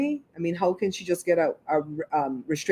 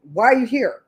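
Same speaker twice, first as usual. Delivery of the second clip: loud, raised, bitchy challenge; 5 semitones higher, 5 dB louder than usual. Shown as a demonstration. Showing how she'd question the man, bitchy. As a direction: demand it with bitchy attitude. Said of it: "I would have said it bitchy".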